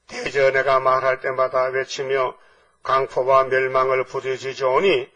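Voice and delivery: slow, solemn, measured recitation; scripture reading. Acted. Preacher reading the prophet's lament to the congregation, slow scripture reading. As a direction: intone the verse phrase by phrase.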